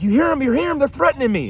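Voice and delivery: imitating a worked-up caller, high-pitched; hammed-up high-pitched alarm; mock wound-up. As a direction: mimic him frantically appealing to the phone. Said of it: "getting wound up".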